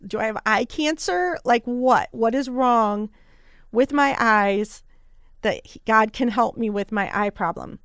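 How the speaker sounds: imitating her own panicked thoughts about her eyes; mock panic. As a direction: play the spiral of fear.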